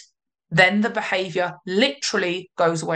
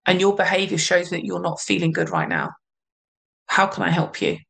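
gentle loving reply; 2 semitones lower than usual. Retold or imitated. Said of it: "you'd say".

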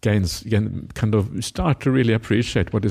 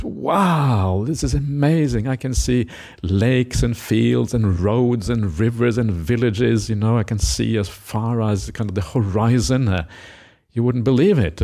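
amazed at the view; slower than usual. Retold or imitated. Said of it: "goes to the top of the hill and says".

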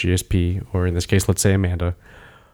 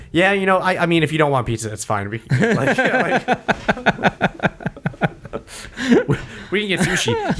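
casual chit-chat; 8 semitones higher than usual. Retold or imitated. Relaxed fighter chatting in corner.

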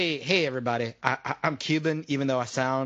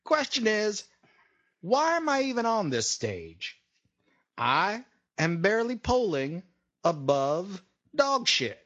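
halting, higher-pitched self-introduction; mock candidate; 4 semitones higher than usual. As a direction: pause between phrases like a parody politician. Voices candidate introducing himself.

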